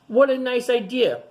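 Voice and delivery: pleased praise. Acted. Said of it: "said his friend".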